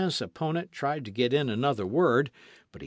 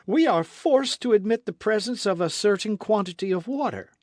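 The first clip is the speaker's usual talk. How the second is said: confident orator; 7 semitones higher, 5 dB louder than usual. Acted. Ardan argues before the crowd.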